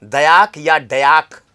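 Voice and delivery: slow "दयाक या डयाक", both ways said carefully. Shown as a demonstration. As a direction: spell out दयाक and डयाक slowly. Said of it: "इस पर देखिए डयाक". (धीमे से दोनों उच्चारण)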